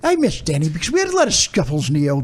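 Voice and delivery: badly faked English accent. Shown as a demonstration. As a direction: attempt a British accent, slipping in and out. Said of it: "do your English accent".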